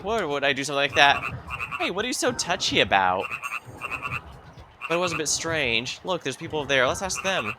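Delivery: voiced party banter. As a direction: play the touchy hero defending himself. Voicing party members bickering.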